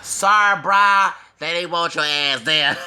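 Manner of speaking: high, loud, breaking into cackles; laughing hard. Real, not acted. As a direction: gloat through helpless laughter. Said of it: "And I had to laugh".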